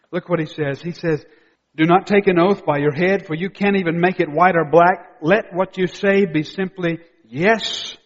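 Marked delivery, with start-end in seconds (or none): 1.8-8.0 loud, emphatic preacher's quotation; declaimed scripture. Real, not acted. Preacher quoting Jesus on oaths, declaimed. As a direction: proclaim the verse loudly.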